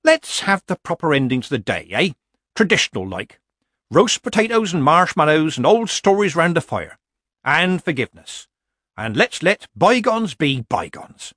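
pleasantly. Acted. Granny proposes a proper ending to the day, pleasantly. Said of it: "Granny said pleasantly".

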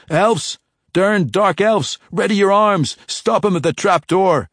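high, loud shout in a put-on Scottish-style dwarven accent; poor dwarven accent. Drizzt fooling the jailers, shouting in fake dwarven accent. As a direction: bellow a warning in an unconvincing dwarven accent. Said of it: "in the best dwarven accent, tone, and dialect he could muster".

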